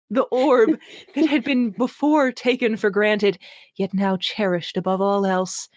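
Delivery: mock-grand reading of purple prose; hammed-up literary reading; dramatic reading. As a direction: read it like overwrought fantasy. Reading a bad novel aloud.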